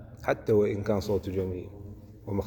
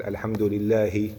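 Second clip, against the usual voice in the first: "الحمد لله" drawn out slowly, stopping on "لله"; slow recitation; much slower than usual. Shown as a demonstration. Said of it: "قال". (ترتيل بطيء لـ "الحمد لله")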